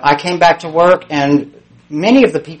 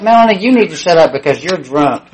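raised, higher-pitched snap back; acted retort; 4 semitones higher, 4 dB louder than usual. Caller answering her drunk roommate's accusation, irritated retort.

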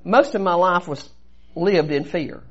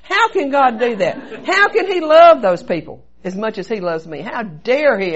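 louder, emphatic indignation, acted out; retold rant at God; 3 semitones higher, 6 dB louder than usual. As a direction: hammer out the questions in mock outrage. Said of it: "I went on a rant at God".

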